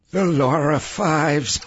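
slow line ending in a sour chuckle; wry, bitter amusement. A narrator's reading. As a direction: drawl it, then chuckle bitterly. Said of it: "another passenger chuckled bitterly".

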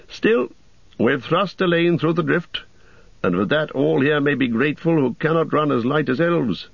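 proud warrior voice; Boromir voice. Acted. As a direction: speak as a bold soldier. Boromir speaks on.

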